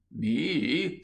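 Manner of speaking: rising, astonished question. A narrator's reading. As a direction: William answers in astonishment. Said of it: "in a voice of astonishment".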